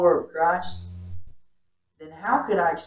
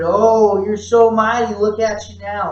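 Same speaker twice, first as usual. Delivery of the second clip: louder, sneering fake praise; sarcastic mockery; 2 semitones higher, 6 dB louder, slower than usual. Soldiers kneeling to mock Jesus, louder and sneering. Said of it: "to mock him in a way that".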